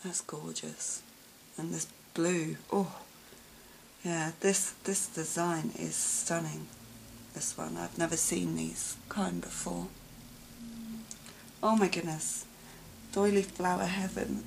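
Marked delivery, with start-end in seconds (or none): none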